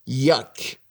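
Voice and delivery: mock disgust; disgusted yuck. Shown as a demonstration. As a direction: recoil at something nasty. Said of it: "منزجر شدن".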